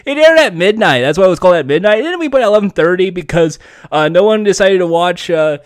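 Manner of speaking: lightly voiced self-promoting TV host; Chris Hardwick. Listing shows while friends interrupt, lightly mimicking a rambling TV host. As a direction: barrel through the credits in a light host impression. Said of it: "Chris Hardwick from, The Wall".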